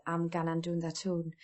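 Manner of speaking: broad Geordie "gan" and "tún"; Geordie dialect. Shown as a demonstration. Sunderland speaker demonstrating a broad Geordie phrase. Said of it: "another expression is".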